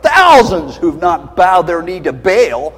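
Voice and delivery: a rebuke, loud in the middle; a hint of a stern God scolding Elijah. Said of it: "And then God said".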